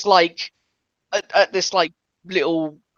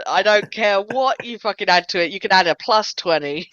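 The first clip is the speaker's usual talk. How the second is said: emphatic insistence. Real, not acted. Game master overruling a player's bonus on a failed roll, emphatically insistent. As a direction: overrule them, stretching the key phrase.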